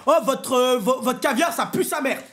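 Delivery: high shouted rant of disgust; disgusted outburst. Retold or imitated. Passenger ranting after tasting the caviar, disgusted shout. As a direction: yell it out, appalled by the taste.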